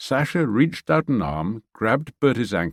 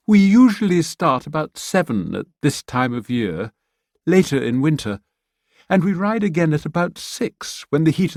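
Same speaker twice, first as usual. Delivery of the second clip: higher, louder cheerful woman; friendly Pamela; 6 semitones higher, 4 dB louder than usual. Acted. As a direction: invite her warmly. Pamela explains riding times.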